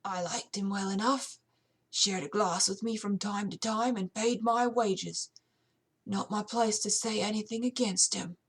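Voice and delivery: put-on lightly rasped elderly servant's voice; a hint of an old man's rasp; elderly British servant, slightly raspy; raspy old manservant. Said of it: "answered in a raspy voice".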